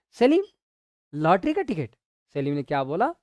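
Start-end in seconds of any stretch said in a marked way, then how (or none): 0.1-1.9 surprised question. Retold or imitated. Salim's incredulous question.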